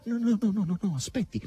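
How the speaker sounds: high, rattled-off string of no's; head him off hurriedly; hasty protest. A narrator's reading. Margherita stops Asasello's anger, hastily protesting.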